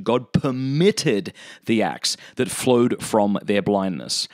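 measured, deliberate reading of a text; solemn quotation with drawn-out key words; formal reading aloud. Acted. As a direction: read it out slowly, phrase by phrase. Reads a quoted text aloud.

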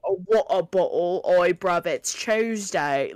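mock British accent. Mocking goofy British talk, put-on British accent. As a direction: make fun of a British accent. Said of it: "If that's how you talk".

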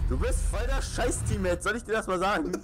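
laughing. Real, not acted. Teasing teammate after laugh.

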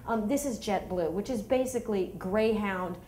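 fake-sorry, dripping with sarcasm; sarcastic apology. Mom imagining telling off the passenger, mock-sweet sarcasm. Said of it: "I just wanted to go up to him and go".

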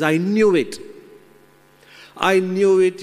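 the monkey catching man red-handed; angry outburst. Acted.

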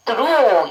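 "through" with the tongue briefly between the teeth; TH demo. Shown as a demonstration. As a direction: slip the tongue out and back for TH in "through". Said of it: "혀가 잠깐 들어갔다 나가야". ("through"의 TH는 윗니 아랫니 사이로 혀를 살짝)

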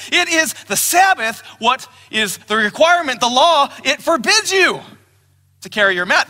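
lecturing elders. Retold or imitated. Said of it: "This is what they say".

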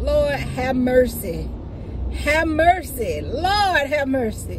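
slow, drawn-out mock of mom's heartfelt lament; a light imitation of her mom's pleading; imitating mom. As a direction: stretch it out like a mother sighing to the Lord. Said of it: "She would be like".

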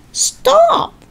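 put-on very high, frightened child; terrified shout. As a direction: scream it in terror. George terrified.

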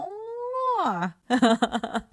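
a long, very high squeal of laughter. Real, not acted. Host squealing with laughter at the sweet boyfriend quote. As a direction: shriek with laughter, high and held.

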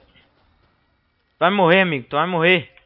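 loud, slow drawn-out taunt. Real, not acted. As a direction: stretch the threat out. Threatening game enemy. (provocando em voz alta)

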